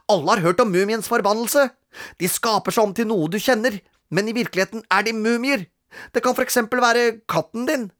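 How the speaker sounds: high, eager storytelling to scare; lightly voiced rascal spinning a tale; scheming big brother. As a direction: spook the little brother. Robin spins a scary tale.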